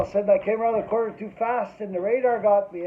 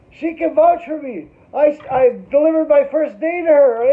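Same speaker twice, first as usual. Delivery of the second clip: eager pleading; 6 semitones higher, 7 dB louder than usual. Retold or imitated. Pointing at the Crown in court.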